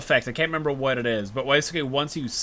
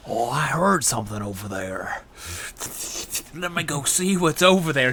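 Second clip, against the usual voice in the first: dim guard. Retold or imitated. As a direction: play a clueless guard. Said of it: "this guy who's on the other".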